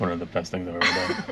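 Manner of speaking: low, soft mock bored monotone with a laugh.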